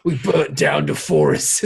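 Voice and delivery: slow, posh-leaning British impression; a slow British Michael Caine line. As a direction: drawl it out like the Alfred scene, slowly. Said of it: "the most British motherfucker".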